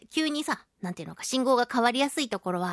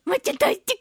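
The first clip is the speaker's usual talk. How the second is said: put-on much higher, sweet child voice; imitating little girl; 12 semitones higher, 3 dB louder, faster than usual. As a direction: squeak it like a small girl. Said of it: "ってお手紙ももらいますし".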